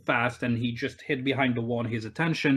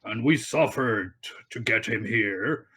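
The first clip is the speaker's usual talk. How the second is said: slow, lowered rugged voice; a rugged haggler, pressing the point slowly; 4 semitones lower, slower than usual. Acted. Game master voices a captor arguing to be paid, rugged voice. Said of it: "a rugged voice".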